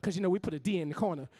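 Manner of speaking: rhythmic stage poetry with rising heat; spoken word poem. Acted. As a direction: perform it like a slam poem for a crowd.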